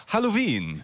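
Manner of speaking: playfully calling out, high-pitched. Pretend. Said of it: "wir rufen mal nach Wien". (spielerisches Rufen, hohe Stimme)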